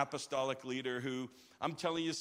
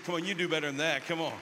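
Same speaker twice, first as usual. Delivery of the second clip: rousing call; 5 dB louder, faster than usual. Real, not acted. Urging crowd to cheer louder.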